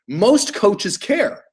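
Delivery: very slow emphasis. Shown as a demonstration. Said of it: "Write that down".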